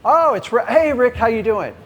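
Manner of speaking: put-on high, bright hello to an old friend; warm familiar greeting. Seller greeting a familiar caller, friendly and open. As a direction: greet him like a buddy you know.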